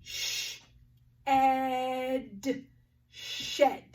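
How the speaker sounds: segmenting then blending "shed"; tapping out sounds. Shown as a demonstration. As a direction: tap out "Sh-ed" then say "shed" firmly. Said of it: "Let's tap it out together".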